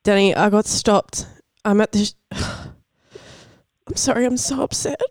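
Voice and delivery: high, distressed fake arrest call; upset. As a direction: act panicked and near tears. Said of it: "I'm gonna need your best acting".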